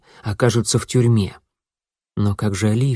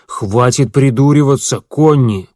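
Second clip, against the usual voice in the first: annoyed; 3 semitones higher, 5 dB louder than usual. Acted. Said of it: "рассерженно покачал головой".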